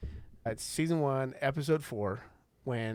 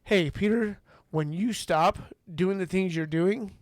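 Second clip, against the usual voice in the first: raised, pointed voice listing demands; lightly voiced Jesus setting terms, higher and louder; Jesus laying down conditions; 4 semitones higher, 4 dB louder than usual. Jesus telling Peter to fix himself first, raised and demanding. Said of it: "he doesn't say".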